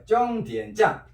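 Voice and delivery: 쫑디엔 짠 said as Chinese zhōngdiǎn zhàn; Chinese pronunciation demo. Shown as a demonstration. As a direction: model 쫑디엔 짠 as Chinese, with tense onsets and n endings. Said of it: "중국 발음은 종점 참과 비슷하게 쫑디엔".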